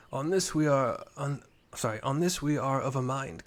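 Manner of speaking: calm officer, lightly done; understated commander; lightly voiced commander. Reads Hilui's lines.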